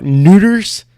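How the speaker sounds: scoffing at a bad joke line; incredulous mocking echo. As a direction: toss the word back in disbelief. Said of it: "That is not even how Chinese people talk".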